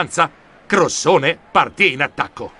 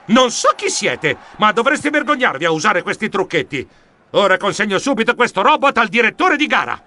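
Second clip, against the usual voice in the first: indignant exclamation; 4 semitones higher than usual. Acted. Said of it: "esclamai nel trasmettitore".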